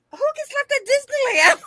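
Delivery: high, laughing incredulity; cracking up at the absurdity; laughing while retelling being abandoned; laughing disbelief. Real, not acted.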